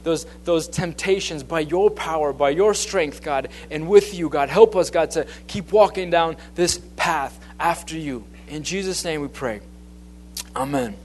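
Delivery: a pastor closing in prayer before his message, earnest. Real, not acted. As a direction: pray it out to God, leaning on each plea. Opens with a spoken prayer.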